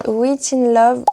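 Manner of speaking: "Wait in Love" said slowly with a French accent; English title read slowly in a French accent. Real, not acted. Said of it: "désolée pour mon accent anglais".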